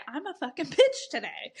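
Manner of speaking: high, laughing confession of being a bitch; playful laughing admission; laughing self-mock. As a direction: laugh through it, owning the mood. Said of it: "And I would say".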